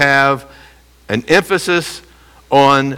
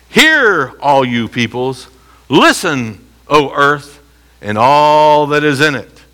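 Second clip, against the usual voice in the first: scripture reading; slower than usual. Shown as a demonstration. Reads scripture aloud to class.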